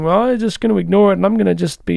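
lightly voiced naive optimist; a hint of breezy Pollyanna cheer; mock Pollyanna. Mocking someone who ignores offense, lightly voiced Pollyanna. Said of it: "it's like Pollyanna".

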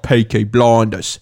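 low, slow Cockney impression; Cockney accent. Showing friends derelict London talk, low Cockney accent. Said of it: "Cockney was like".

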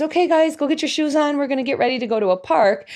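put-on calling the kids. Mother calling kids to leave.

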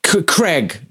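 "Craig" as Creg, with a short e; imitated short-vowel "Craig", like Creg; North American Craig. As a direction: say "Craig" to rhyme with leg. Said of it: "They fucking pronounce it".

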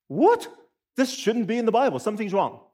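high startled what, then puzzled; mock disbelief at a passage; shocked reader. Reader hitting a strange verse, mock alarm. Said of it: "you're going".

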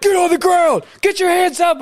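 high, forceful commands; mock police orders. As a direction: imitate a team barging in with orders. Imitating rescuers shouting orders.

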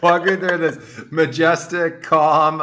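laughing question. Real, not acted. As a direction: ask while laughing at the story. Host laughing while asking.

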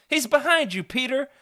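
high, loud playful shout of warning; playful yell. Acted. Kid warning his friend in pretend play, high playful yell. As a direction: yell it like a game of chase. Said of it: "you yell".

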